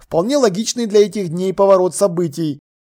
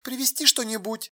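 very soft, listless question; colourless; 4 semitones higher, 11 dB quieter than usual. A narrator's reading. Alla offering to bring something, colourless. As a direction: ask quietly without any interest. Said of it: "бесцветно спросила Алла".

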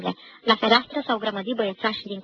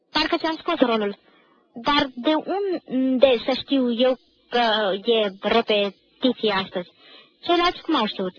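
whining student; 4 dB louder than usual. Acted. Pache defending himself to the director, lightly whining. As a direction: protest your innocence, a little whiny.

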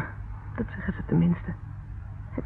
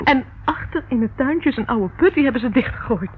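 tearful; 3 semitones higher, 4 dB louder than usual. Acted. Tense details of his house.

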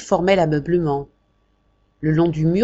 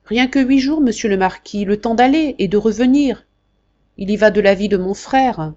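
pleading secretary; 4 semitones higher, 3 dB louder than usual. Acted. Jacques pleading with the marquis.

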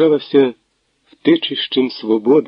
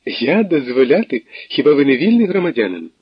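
a touch of laughing tease, a bit higher; 4 semitones higher than usual. Acted. Natalia laughingly ends the call with Tverdokhlib. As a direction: tease him lightly with a laugh. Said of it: "Сміхом почала, сміхом закінчила".

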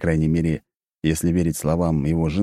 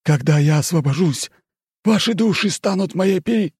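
booming demon lord; 12 semitones higher, 4 dB louder than usual. Acted. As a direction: boom it like a demon. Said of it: "прикинулся злым духом".

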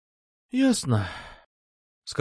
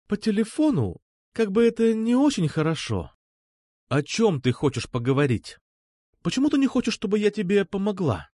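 higher, eager insistence; a hint of a pushy girl; lightly voiced girl; 8 semitones higher than usual. A narrator's reading. Alpha pleading, higher.

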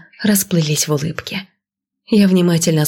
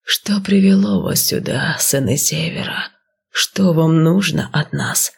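serpent creature voice; slower than usual. Acted. Snake guard questions.

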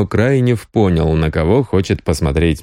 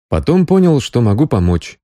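ordinary delivery

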